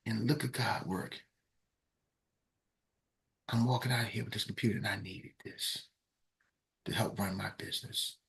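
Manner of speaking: overcome, barely getting words out; tearful gratitude. Retold or imitated. Woman overwhelmed, in tears.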